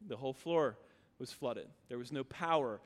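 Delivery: low, soft, somber retelling; hushed somber. Real, not acted. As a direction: drop the voice for the disaster. Recounting hurricane flooding.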